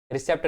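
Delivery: "रिसेप्ट" with the p sounded; wrong pronunciation. Shown as a demonstration. Teacher warns students against saying it, sounded p. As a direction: say "रिसेप्ट" as re-sept. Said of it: "रिसेप्ट नहीं बोलो".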